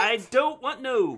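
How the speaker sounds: high, loud, slow "I don't want no"; botched accent imitation. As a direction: mimic her accent slowly and badly. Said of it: "You're not saying it right".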